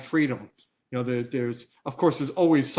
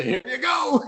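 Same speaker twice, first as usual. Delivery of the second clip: much higher, louder mock call; joking offer; 12 semitones higher, 6 dB louder, slower than usual. Company jokingly handing fans the relabeled product, in a high, loud mock call. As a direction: toss it out like a cheeky handover. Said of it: "and say".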